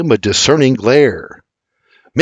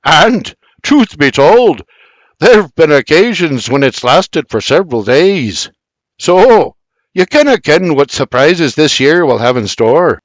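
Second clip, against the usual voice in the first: sly, grinning Scottish teasing; smug grin; 4 semitones higher, 5 dB louder than usual. Acted. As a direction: tease with a wide grin. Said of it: "with a shit-eating grin, he adds".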